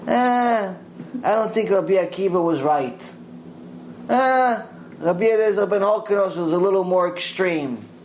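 high scoffing "Ah" before each opinion; dismissive mocking. Preacher mocking people who question the sages, scoffing. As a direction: mimic a know-it-all brushing off sages. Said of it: "So to say".

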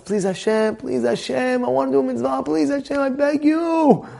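soft, high begging prayer; pleading prayer. Retold or imitated. Man pleading softly with Hashem to find a menorah. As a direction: quietly beg God for a miracle. Begging God, store closing.

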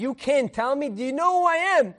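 rising outrage, quickening at the end; even angrier. Acted. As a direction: pull rank as an outraged emperor. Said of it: "he's even more angry now".

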